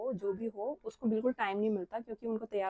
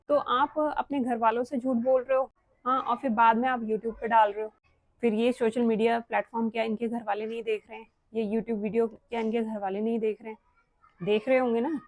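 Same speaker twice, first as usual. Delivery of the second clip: louder, forceful confrontation; harsh, blunt; 4 dB louder than usual. Real, not acted. Vlogger challenges fellow vloggers over their wedding complaints, harsh and blunt. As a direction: call them out hard, pressing each accusation. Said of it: "ये थोड़ा hard बोल दिया मैंने".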